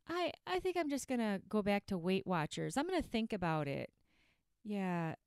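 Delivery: low, subdued excuse-making; lightly voiced procrastinating dieter. Dieter talking herself out of starting, lightly acted procrastination. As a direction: put it off with a half-hearted resolve.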